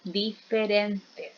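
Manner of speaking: very slow, split into syllables; sílaba por sílaba. Shown as a demonstration. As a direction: stretch out each syllable of "diferentes". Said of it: "están en sílabas". (muy lento, separando las sílabas)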